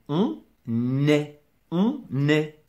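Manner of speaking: "on est" split as "on", then "nè"; liaison. Shown as a demonstration. Teacher showing the n reappears, liaison demonstration. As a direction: sound the n at the start of "est". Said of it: "Une liaison".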